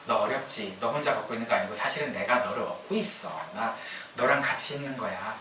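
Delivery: lightly voiced tender God speaking to a child; gently reassuring. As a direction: reassure quietly, as a loving father. Voicing God comforting a child.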